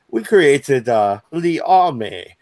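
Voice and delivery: hesitant attempt at a French accent. EU answering Britain back, in a makeshift French accent. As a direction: put on a rough French accent. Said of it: "That's my best French accent".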